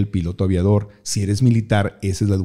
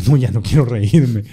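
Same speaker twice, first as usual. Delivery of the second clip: put-on pleading kid. Child pleading to teacher.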